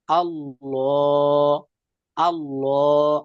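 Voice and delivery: slow, drawn-out আল্লাহ with a heavy L; heavy Allah. Shown as a demonstration. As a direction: stretch আল্লাহ with a thick, dark lam. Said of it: "তাহলে এটা মোটা হবে আল্লাহ". (মোটা করে টেনে আল্লাহ)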